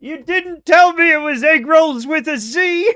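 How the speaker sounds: can barely get it out for laughing. Real, not acted. Teasing chat about a typo, laughing hard.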